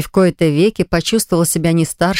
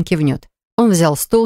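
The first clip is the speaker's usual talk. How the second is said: ordinary delivery, nothing marked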